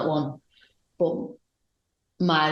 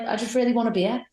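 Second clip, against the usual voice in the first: higher, quick and pleading; higher, fast whiny beer plea; 7 semitones higher, faster than usual. Retold or imitated. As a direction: whine it like a drunk begging. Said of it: "she was like".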